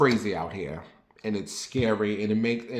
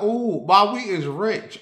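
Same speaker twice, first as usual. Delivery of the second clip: mock teen glee; 9 semitones higher, 4 dB louder, slower than usual. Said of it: "I was like".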